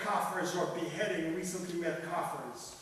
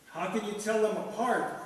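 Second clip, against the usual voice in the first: cried out; 5 semitones higher, 6 dB louder than usual. A narrator's reading. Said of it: "cried the parrot".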